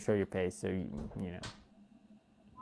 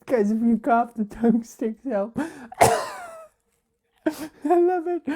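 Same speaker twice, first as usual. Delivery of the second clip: high squeaky voice; 5 dB louder than usual. Pretend. Playing with a voice filter.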